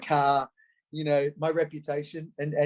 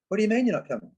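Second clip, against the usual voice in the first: high, disbelieving mock question; incredulous friend; 8 semitones higher, much faster than usual. Old friends can't believe he's skipping the nightclub, disbelieving. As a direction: play the stunned mate who can't believe it.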